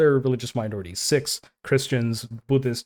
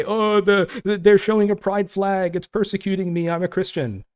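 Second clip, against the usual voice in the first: mock a self-pitying Christian, voice pitched up; mock whiny Christian; 7 semitones higher than usual. Mocking American Christians who feel persecuted, whiny and higher. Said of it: "when you say".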